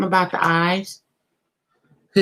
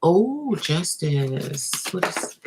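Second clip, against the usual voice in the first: breathy whispered Oh; a hushed gasp of wonder; slower than usual. Real, not acted. Tarot reader whispering to herself over a card.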